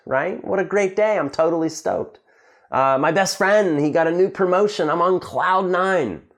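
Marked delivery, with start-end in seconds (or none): 0.4-2.2 higher-pitched acted delight; happy, stoked. Teacher showing students what being stoked is, happily excited. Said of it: "When you're happy, you're stoked". 3.0-6.2 high, elated example sentence; really happy. Acted. Teacher acting out joy at a friend's promotion, elated. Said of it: "To be on cloud nine means to be really, really happy".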